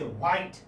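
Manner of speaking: "white" with an audible h at its start; h wrongly sounded. Retold or imitated. Teacher imitating a common mistake, h wrongly sounded. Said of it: "they tend to pronounce this ha".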